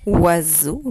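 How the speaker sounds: OISEAU slowly stretched out; tortoise word. Shown as a demonstration. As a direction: draw out both syllables of oiseau. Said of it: "Un mot de la tortue".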